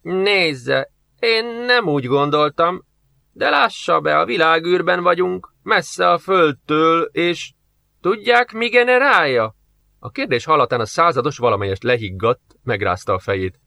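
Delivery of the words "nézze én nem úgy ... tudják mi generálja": higher, nervous pleading; a touch of fright in a lightly voiced old man; frightened old scientist. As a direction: back away, scared. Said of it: "Az öreg tudós ijedten hátrált".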